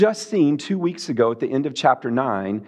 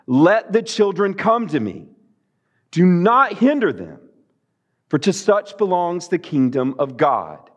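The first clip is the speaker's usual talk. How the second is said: forceful command; 2 semitones higher than usual. Acted. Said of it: "this is not a gentle command".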